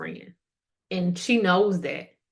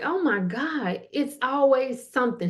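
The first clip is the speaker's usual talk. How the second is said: higher, weary oh my God; drained sigh; 6 semitones higher than usual. Retold or imitated. Listener worn out by Sorry Susan, high weary sigh. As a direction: sigh it out like she wore you down. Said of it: "after you talking to her".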